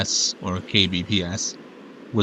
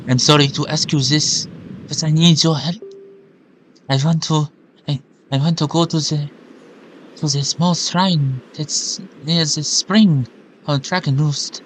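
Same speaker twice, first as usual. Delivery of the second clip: put-on own accent but higher; 4 semitones higher than usual. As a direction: own voice pitched up for the girl. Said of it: "changing back to just my accent, but higher".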